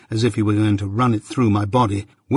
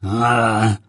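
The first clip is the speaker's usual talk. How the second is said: growled through teeth. Acted. Journeyman threatening master's wife, growled. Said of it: "growled the journeyman between his teeth".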